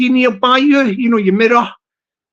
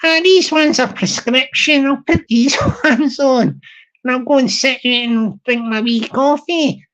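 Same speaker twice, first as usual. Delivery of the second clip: Glaswegian lady. Retold or imitated. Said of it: "the wee Glaswegian ladies".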